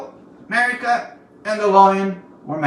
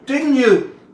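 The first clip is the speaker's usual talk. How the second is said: higher and louder, hurled at him; charging demand; 7 semitones higher, 8 dB louder than usual. A narrator's reading. Marika confronting the lion, charging loud. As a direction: demand the truth outright. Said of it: "she charged".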